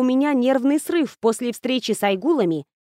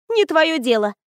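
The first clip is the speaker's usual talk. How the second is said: dismissive ghost; 6 semitones higher than usual. Acted. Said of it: "Вдруг отмахнулась Лора".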